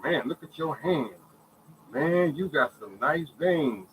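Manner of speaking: imitated slow amazement; retold admiration. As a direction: mimic someone impressed, stretching the words. Retelling staff admiring his veins.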